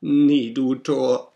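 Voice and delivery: high, loud, slow raven croak. Acted. Raven answers the pleading narrator, croaking loud and slow. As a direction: drag out the croak. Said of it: "Sprach der Rabe".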